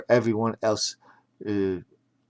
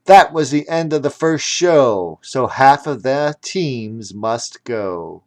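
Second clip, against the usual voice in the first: blaring speaker announcement; 2 semitones higher, 5 dB louder than usual. Acted. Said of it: "The speaker blared".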